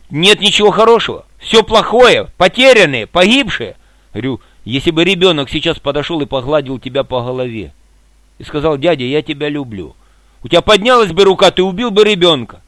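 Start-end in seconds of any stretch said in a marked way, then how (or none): 0.1-3.7 play-acted strict, grim, severe tone. Repeating a man's words back to him in his manner, imitating his stern voice. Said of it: "в его манере таким строгим голосом".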